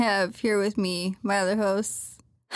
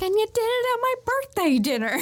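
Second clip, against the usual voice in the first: imitating Tati; 10 semitones higher than usual. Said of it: "And she's like".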